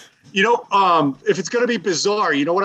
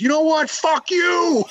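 higher-pitched mock yell at the rude guy; retold yell; 11 semitones higher, slower than usual. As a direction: blurt it out like a fed-up friend.

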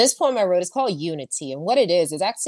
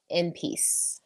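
soft closing; 8 dB quieter than usual. Acted. Poem's soft closing words.

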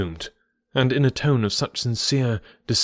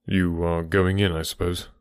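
depressed manner; 4 semitones lower than usual. Acted. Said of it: "the depressed manner in which he still spoke".

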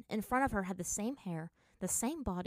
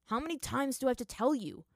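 mildly exasperated, pitch lifted; a touch of impatience at having to repeat himself; losing patience; 5 semitones higher, 4 dB louder than usual. Acted. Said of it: "losing his patience".

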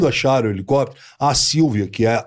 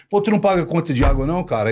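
fast, slightly higher mock question; rushed aside; 4 semitones higher, much faster than usual. Actor hurriedly asking castmate, fast mock question. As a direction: tumble the words out fast.

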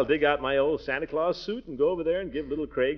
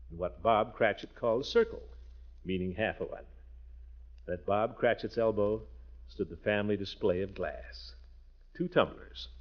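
lightly voiced storybook reading; unhurried read-aloud of Dickens for the kids; story narration; 3 semitones lower than usual. Uncle reading Dickens to the children, gentle storytelling narration.

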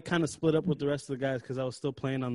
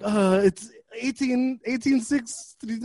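receptionist voice; 7 semitones higher, 5 dB louder, slower than usual. Retold or imitated. Mimicking receptionist reading number.

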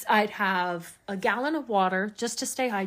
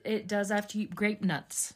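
whispered aside; 6 dB quieter than usual. Real, not acted. To her cohost about cereal, a whispered aside. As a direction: drop to a whisper for the punchline.

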